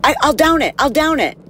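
high, hammed-up boozy voice; mock drunk passenger. Mocking the drunk passenger to the flight attendant, high hammed-up promise. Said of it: "And he's like".

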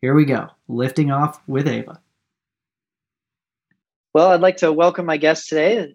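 measured, polished intro read; scripted podcast introduction. Acted. Host introduces admired guest to listeners, scripted intro read. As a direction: read a prepared tribute to the guest.

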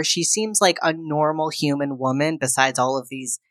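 normal talking voice

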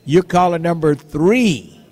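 loud, punchy caller count; calling out. Acted. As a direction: announce it to the whole studio.

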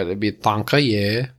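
"thank you" slowly said as "tonka-yuh"; mock foreign pronunciation. Co-host insisting to host, "thank you" slowly bent into "tonka-yuh". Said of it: "pretty sure it's not thank you".

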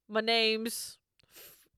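slow, drawn-out introduction; slow dramatic intro. Shown as a demonstration. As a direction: say it slowly, like a reveal. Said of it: "Normally you do the".

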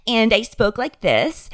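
put-on Ashley accent, drawn out slowly; thickest Ashley accent. Shown as a demonstration. Lost driver demonstrating the disguise, thick Ashley accent. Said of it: "thickest Ashley accent in the world".

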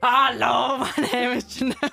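mock German introduction; bad German accent. Player introducing herself for the accent dare, bad German accent. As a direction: badly fake a German accent.

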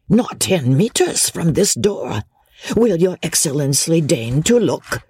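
high-pitched servile peddler; obliging old peddler. Acted. Old peddler inviting Chauvelin to see his cart, obliging.

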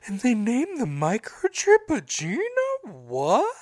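high-pitched mock disbelief; incredulous, hammed-up panic; retold freak-out. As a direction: imitate a friend freaking out, pitch jumping up. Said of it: "audibly hear him freaking out".

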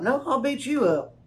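"I'll" leaned on in a pretend challenge; squabbling ballplayer, lightly mocked; mock tough guy comeback. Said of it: "Just a bunch of guys standing around like".

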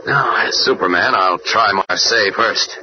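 low, slow heroic voice; Superman. Acted. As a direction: drop deep and deliberate, the hero taking over. Kent turns into Superman.

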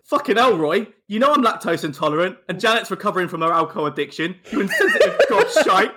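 high-pitched, exasperated comic rant; mock outrage. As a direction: play offended, cracking up near the end. Acted outraged reply to Roy.

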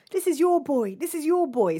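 high, loud call-out; imitated man filming. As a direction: crow it out like the guy behind the camera.

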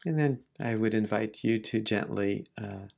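unhurried meditation guidance with long pauses; gentle teacher leaving space between phrases; guided meditation. Real, not acted. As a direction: ease listeners into relaxing, phrase by phrase.

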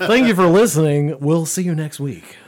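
lightly hammed-up salesman outro. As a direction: sell the goodbye like a car lot ad. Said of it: "you sound like you're trying to sell me a car".

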